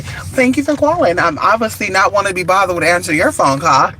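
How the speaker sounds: a hint of polite recording voice; lightly voiced answering machine; mock voicemail greeting. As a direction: read it like an automated greeting. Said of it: "The voice will go say".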